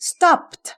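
"stopped" ending in a released t after p; puffed final t. Shown as a demonstration. Teacher shows the ed rule, puffed final t. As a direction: puff a t straight after the p in "stopped". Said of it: "เราจะพ่นลมตามออกไปทันที ก็คือ th".

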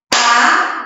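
ABACAXI in four separate beats, pausing between each; syllable by syllable. Shown as a demonstration. Teacher counting syllables with claps, Abacaxi said in separated syllables. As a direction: clap out Abacaxi one syllable at a time. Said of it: "Vamos bater palma pra ver quantas sílabas".

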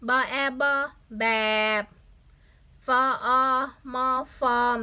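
letter sounds chanted, then blended into แบบ and ฟอร์ม; spelling out. Shown as a demonstration. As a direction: spell แบบฟอร์ม aloud bit by bit. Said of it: "อันนี้อ่านว่า".

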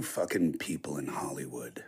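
hushed conspiratorial whisper; whispered aside. Real, not acted. Teasing Hollywood guests with a whispered conspiratorial jab. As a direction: lean in and whisper it like a secret.

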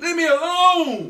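loud, high, slow exasperated yell. Real, not acted. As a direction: snap back in a shout. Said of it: "why are you yelling".

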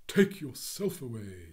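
slow, loud, odd bird voice; proud magical bird commanding; slow imperious bird voice; haughty Phoenix. Acted.

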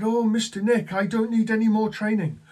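high, loud, imitated elation; very happy. Happy agent telling manager he's done with training, elated. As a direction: mimic a jubilant trainee. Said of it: "looking very happy, happy".

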